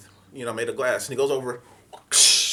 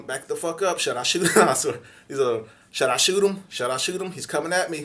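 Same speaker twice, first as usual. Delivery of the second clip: frantic; 3 semitones higher, 5 dB louder than usual. Retold or imitated. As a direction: ask urgently on the phone. Panicked call to dispatch.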